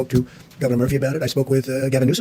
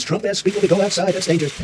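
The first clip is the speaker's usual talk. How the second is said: mocking headline; 4 semitones higher than usual. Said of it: "The new, the new headline is".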